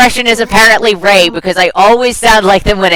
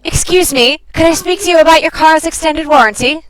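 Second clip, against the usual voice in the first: higher put-on polite caller; warranty caller; 5 semitones higher than usual. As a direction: ask it like a telemarketer, pitched up. Takes turn as warranty caller.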